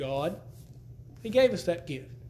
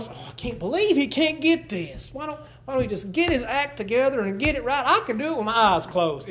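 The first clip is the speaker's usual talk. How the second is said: higher, exasperated complaining; a brother's inner grumble about Daniel, exasperated and higher; grumbling inner voice; 4 semitones higher than usual. Retold or imitated. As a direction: voice your impatient inner grumble. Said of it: "in the back of my mind, I'm going".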